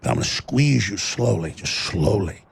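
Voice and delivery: a creature squeezing its prey slowly; menacing monster voice. Acted. Tentacle monster threatening Alex, low slow menace.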